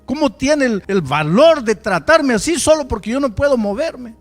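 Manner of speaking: loud, high, enraged accusation; furious outcry. Retold or imitated. Young man praying against the pastor, loud and furious. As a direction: spit out the outrage at God.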